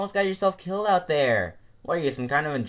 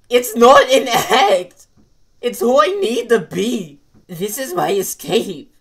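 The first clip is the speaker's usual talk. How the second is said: anguished shouting; 7 semitones higher, 9 dB louder than usual. Acted. Emotional outburst.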